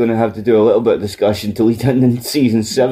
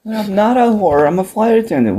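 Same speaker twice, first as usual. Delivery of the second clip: mock indignant caller; 9 semitones higher than usual. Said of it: "caller quote".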